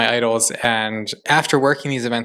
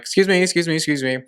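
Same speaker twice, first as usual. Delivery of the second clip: calling out; 5 semitones higher, faster than usual. Retold or imitated. Leading Kimmel through a crowd.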